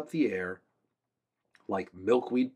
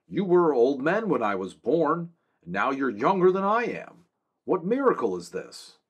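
louder, higher urgent questions; demanding; 6 semitones higher, 6 dB louder than usual. A narrator's reading. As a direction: press them for an answer. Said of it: "Lear demanded".

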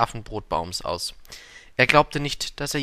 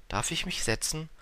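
softer, higher little prince; schüchterne Frage; 6 semitones higher, 5 dB quieter than usual. A narrator's reading. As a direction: ask timidly, softly and pitched up. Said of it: "fragte schüchtern der kleine Prinz". (schüchtern und leise gefragt)

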